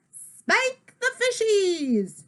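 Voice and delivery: pirate voice. Acted. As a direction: drag it out like a cartoon pirate. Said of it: "I talk like a pirate".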